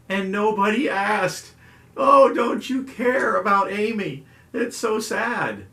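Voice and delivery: high, loud, hammed-up pout; mock hurt. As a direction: overplay being wounded that nobody asked. Mock hurt nobody asked about Amy.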